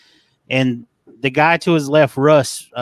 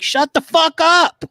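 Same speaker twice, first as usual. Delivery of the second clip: high, slow, exaggerated snap; mock outburst; 4 dB louder, slower than usual. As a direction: blurt it out higher and slower, hamming up the annoyance. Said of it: "And I'm like".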